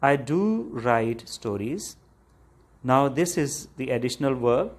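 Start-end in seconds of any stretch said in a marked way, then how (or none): 0.0-2.0 slow, deliberate stress on "do"; emphatic DO. Shown as a demonstration. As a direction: lean on "do" to insist it is true. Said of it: "When you emphasize on something".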